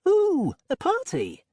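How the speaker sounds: high, slow, gushing ooh; mock delight. A narrator's reading. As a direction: gush over the party.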